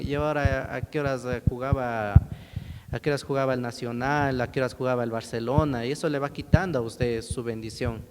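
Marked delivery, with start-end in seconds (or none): 0.0-5.8 quick, impatient mutter about the match times; distracted churchgoer. Preacher mocks a worshipper fretting about football, quick and impatient. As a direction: wonder when the game starts, hurrying. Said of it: "porque está preocupado en".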